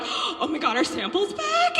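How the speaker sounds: high, laughing squeal of joy; mock delight. Comic retelling spotting the sample table, mock delighted. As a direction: gasp like a kid spotting free samples.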